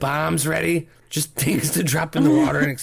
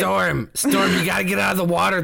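calling out. Acted. Calling out to diver.

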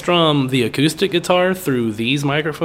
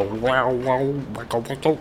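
imitating a wah pedal sweep; wah pedal wow; 2 semitones lower, 6 dB quieter, slower than usual. Shown as a demonstration. Imitating his envelope filter pedal: wah-wah wows. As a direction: sing the wows like a funky guitar pedal. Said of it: "it sounded like porn music".

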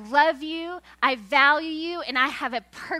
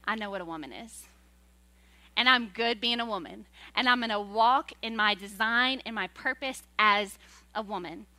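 quiet confident affirmation; 4 semitones lower than usual. Pretend. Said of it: "to say".

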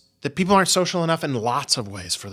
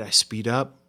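quick little demonstration of speeding up. Shown as a demonstration. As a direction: say "speed up" briskly. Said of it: "It varies in its pace".

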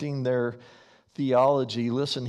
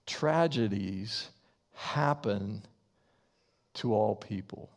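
slow dictation. Shown as a demonstration. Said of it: "you can write this down".

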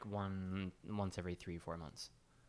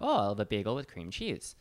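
put-on younger self's Wisconsin accent. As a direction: order it with Wisconsin vowels. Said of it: "my old accent from Wisconsin".

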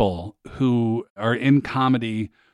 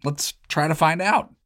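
podcast host intro; 2 semitones lower than usual. Acted. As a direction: read it like a show opener. Host reads show intro over music.

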